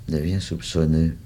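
ordinary delivery, nothing marked

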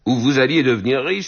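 stupefied cry. A narrator's reading. Madame Pic to the dying girl, stupefied exclamation. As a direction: echo it back in surprise. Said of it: "s'écria madame Pic, stupéfaite".

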